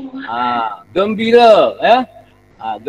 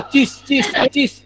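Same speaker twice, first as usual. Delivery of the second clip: higher mock-angry interjection; angry exclamation; 6 semitones higher, 4 dB quieter, slower than usual. Shown as a demonstration. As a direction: demonstrate a short scoff of anger. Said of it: "Marah, marah". (seruan marah olok-olok)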